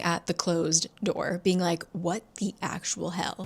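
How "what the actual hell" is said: softer, muted incredulous mutter; stunned disbelief. Retold or imitated. Eden staring at the closed door, quietly dumbfounded. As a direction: say it under the breath, dumbfounded.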